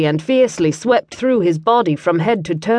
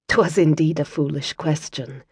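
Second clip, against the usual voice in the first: a hint of laughter, quiet Scots; amused; 4 semitones lower, 6 dB quieter than usual. Kira agrees with Liam's curse, lightly amused. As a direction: let a light chuckle colour it. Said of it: "laughter still tinting her sultry voice".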